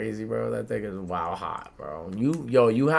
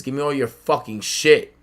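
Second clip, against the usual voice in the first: loud, raised robber's demand; mock threat; 4 semitones higher, 11 dB louder than usual. Older kid robbing the boy he lost to, mock menacing. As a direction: act out a loud threat for laughs.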